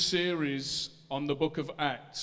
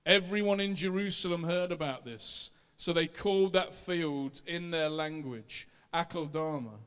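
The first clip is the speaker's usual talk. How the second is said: raised, steady reading of scripture. Acted. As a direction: read the passage aloud to the church. Reads Acts chapter one aloud.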